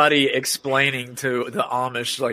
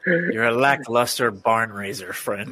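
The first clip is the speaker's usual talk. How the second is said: Amish insult; 4 semitones lower, slower than usual. Pretend. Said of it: "how the Amish insult each other".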